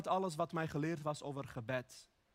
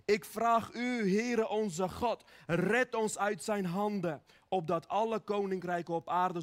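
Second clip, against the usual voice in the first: crying out to God; 2 semitones higher, 4 dB louder than usual. Retold or imitated. King begs the Lord for rescue, crying out. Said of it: "een man die uitschreeuwt naar God".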